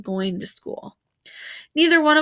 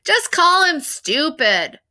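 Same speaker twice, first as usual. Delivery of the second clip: mild mock yell; 5 semitones higher, 5 dB louder, slower than usual. A narrator's reading. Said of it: "Someone would yell out".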